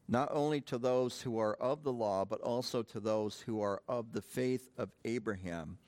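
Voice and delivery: measured, emphatic Bible reading; solemn public reading with weighted phrases; scripture reading. Acted. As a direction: read the verse out deliberately to a congregation. Reads scripture aloud.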